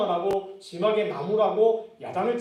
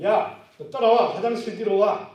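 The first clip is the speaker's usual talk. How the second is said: loud slow gangster call-out; mock schoolyard thug; bully's summons; 6 dB louder than usual. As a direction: boss a weak kid behind the toilets. Bully calls a kid out.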